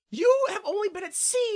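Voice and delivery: high-pitched disbelief; mock incredulity. Host challenges the captain's excuse, mock incredulous. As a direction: question it as utterly absurd. Mocks the captain's lost convoy.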